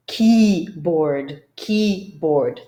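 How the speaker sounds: keyboard with stress on KEY; drilling keyboard. Shown as a demonstration. Teacher drills keyboard for students. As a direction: repeat keyboard, key first and strong. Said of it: "drill the proper pronunciation".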